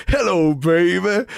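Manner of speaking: slow, drawn-out showman's hello; a singer. Retold or imitated. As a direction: stretch it out like the rock-and-roll record intro. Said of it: "'cause the Big Popper fucking died".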